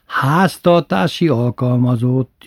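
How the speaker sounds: slow, pointed correction; mother primly fixing the word; correcting. Retold or imitated. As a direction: insist on the proper word, slowly. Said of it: "javított ki édesanyja mindig".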